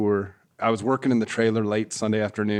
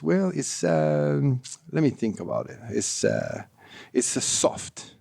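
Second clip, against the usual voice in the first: imitating a halting Spanish-accented English; Miguel's accent; 3 semitones higher, slower than usual. Golf rep retelling a player's verdict on shafts, in an imitated Spanish accent. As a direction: put on his accent, hesitating between phrases. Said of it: "Miguel, in his accent".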